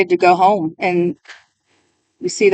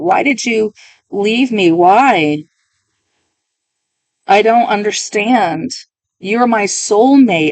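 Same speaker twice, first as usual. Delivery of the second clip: getting emotional; 2 semitones higher, slower than usual. Acted. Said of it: "I'm getting emotional".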